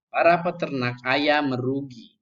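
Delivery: PARA PETERNAK AYAM MERUGI in one unbroken run; read without pause. Shown as a demonstration. Teacher reading the example sentence wrongly, no pause. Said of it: "salah kalau dibaca tanpa je".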